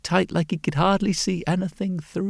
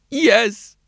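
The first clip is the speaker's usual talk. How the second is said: higher-pitched, strained character voice; troubled mole-like man; 6 semitones higher, 4 dB louder than usual. A narrator's reading. Mole-like man answering the glasses maker, troubled.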